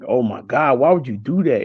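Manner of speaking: loud alarmed outburst; shocked. Retold or imitated. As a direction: blurt it out in disbelief. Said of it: "And I'm like".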